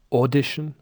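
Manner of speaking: Icelandic accent, audition said as AUdition, stress on the first syllable. Shown as a demonstration. Teacher imitates an Icelandic accent, audition stressed on AU. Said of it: "Icelanders might say".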